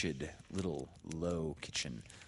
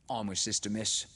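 higher, louder knowing tone; meaningly; 5 semitones higher, 4 dB louder than usual. A narrator's reading. Sister speaks to Laura, higher and knowing. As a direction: lean on it meaningfully. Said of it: "She said meaningly".

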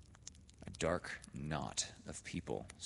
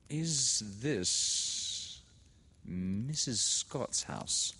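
put-on higher, slow nervous young lady; Laura's timid question; 6 semitones higher, 3 dB louder, much slower than usual. A narrator's reading. Nervous girl asks a woman standing by, higher and slow. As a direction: ask shyly, unsure at the gate.

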